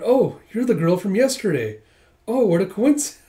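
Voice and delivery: high, loud, overdone delight at a chance meeting; feigned surprise. Acted. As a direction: act surprised, breaking off before a laugh.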